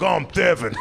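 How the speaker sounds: "Thevin" with TH for the S of Seven or Kevin; lisped name. Acted. Kid introducing himself, "Thevin" said with a lisped TH. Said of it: "Your mom has a lisp".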